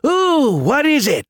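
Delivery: put-on very high, childlike eagerness; squeaky excited plea; eager begging. A narrator's reading. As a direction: beg to be let in on it. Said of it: "the missiles begged".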